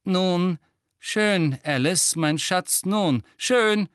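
high, loud grandmother voice, in short phrases; indulging grandmother. A narrator's reading. Grandmother giving in to Alice's offered gift, high and emphatic. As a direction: humour her with emphatic, impatient indulgence.

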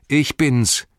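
high, loud announcement; calling out. A narrator's reading. Sam calling as he rides up to the house, high loud call. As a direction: call out so they know you. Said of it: "rief Sam".

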